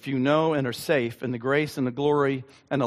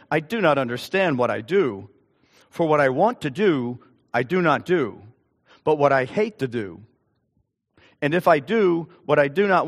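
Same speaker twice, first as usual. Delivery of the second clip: scripture reading. Acted. Reads scripture aloud to congregation.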